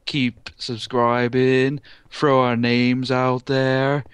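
slow, drawn-out YouTuber sign-off; milk each line like a cheesy vlogger; YouTuber outro voice. Pretend. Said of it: "a typical YouTuber voice you was trying to do there?".

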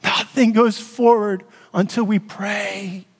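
slow, heartfelt and overcome; emotional. Real, not acted. Pastor urging church to pray, emotional and slow. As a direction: say it slowly through real emotion. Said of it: "I'm so emotional".

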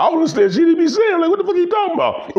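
high, fast, laughing; laughing bafflement; laughing disbelief. Real, not acted. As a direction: rattle it off cracking up. Laughing incredulous rant.

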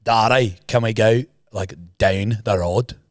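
a lightly done northern Irish accent. Shown as a demonstration. Teller contrasts it with a northern Irish accent. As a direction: demo the northern Irish accent, slowing at the end. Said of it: "In the north, it's like".

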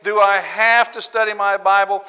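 imitating a grudging churchgoer, slow and whiny; mock reluctant churchgoer. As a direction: drag it out like someone dodging duty. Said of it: "when we start saying".

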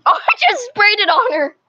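shrieking through laughter; cracking up while yelling; laughing. Real, not acted. Sprayed cousin by accident.

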